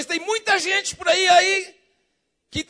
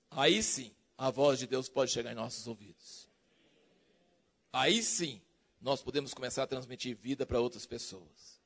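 hushed preaching; 11 dB quieter than usual. Acted. Sermon drops to hush.

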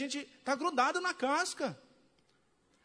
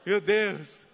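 loud, agitated cry of Meu Deus; manifesting cry; 3 semitones lower, 6 dB louder, much slower than usual. Retold or imitated. A believer overcome, crying out loudly to God. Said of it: "até manifesta".

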